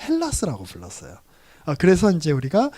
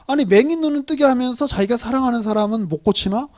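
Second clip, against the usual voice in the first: mock sneering; 5 semitones higher, 3 dB louder than usual. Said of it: "막 이렇게 비아냥거렸어요".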